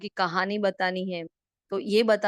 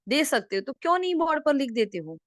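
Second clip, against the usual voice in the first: raised, louder urging voice; emphatic exhortation; 7 semitones higher, 5 dB louder than usual. Acted. Teacher quoting Baba to push students to share, emphatic exhortation. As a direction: press them with a high, forceful question.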